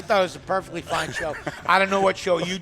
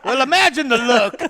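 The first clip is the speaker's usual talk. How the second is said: folksy hee-haw narrator, big drawn-out opener; 4 dB louder than usual. Acted. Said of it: "do it in your hee-haw voice".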